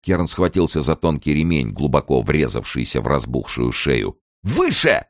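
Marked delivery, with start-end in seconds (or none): 4.4-5.0 high, urgent call; yelled order. A narrator's reading. Kern ordering the man below to lift, yelling. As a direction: cry it out as a command. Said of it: "заорал он".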